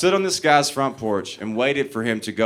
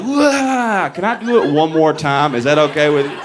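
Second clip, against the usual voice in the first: put-on whiny baby voice; 3 semitones higher, 3 dB louder than usual. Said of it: "You're like".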